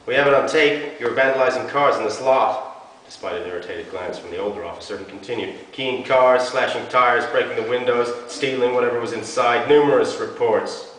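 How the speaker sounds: a younger officer butting in, eager; eager young cop. Acted. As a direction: rattle off the charges, keen to show off. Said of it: "he added curtly".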